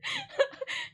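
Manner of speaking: a high laugh that rises at the end; high rising laugh. Real, not acted. Vlogger giggling at her own Timmy story, high rising laugh.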